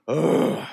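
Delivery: worn-out groaning "ugh"; weary ugh. Retold or imitated. Describing exhausted show staff, a weary groan. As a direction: groan it like you just got through it. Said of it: "come out of it like".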